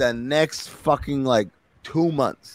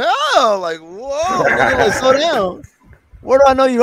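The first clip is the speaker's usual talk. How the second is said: mock woman's voice; 12 semitones higher, 5 dB louder than usual. Woman startled by a stranger.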